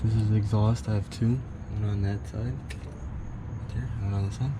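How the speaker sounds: talking while lying under the car. Real, not acted. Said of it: "I'm under the car right now".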